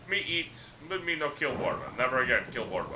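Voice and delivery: lightly voiced simple-minded troll, pitched a bit up; a hint of a friendly, dim troll boasting; rough troll voice. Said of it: "The troll's voice is rough and gravelly".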